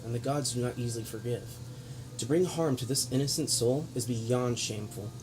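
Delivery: grave lecturing noble speech; villain monologue. Acted. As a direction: preach down at them with scorn. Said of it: "Villain monologue".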